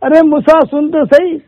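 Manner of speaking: mild mock scream. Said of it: "تو زور زور سے چیخنے لگا".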